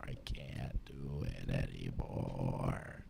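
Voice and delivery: slow, low, hushed; low slow defeated murmur; slow mock despair. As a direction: drag it out like you're broken. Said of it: "my fucking Joker moment".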